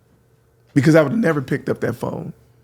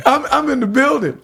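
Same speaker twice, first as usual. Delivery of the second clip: hyped catchphrase; 10 semitones higher than usual. Retold or imitated. DJ repeating his arrival line to the host, hyped. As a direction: announce it like a hype man.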